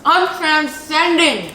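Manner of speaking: high, loud, drawn-out rapture; over-the-top ecstasy. Pretend. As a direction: stretch it out in loud bliss. Overcome by how good cookie is.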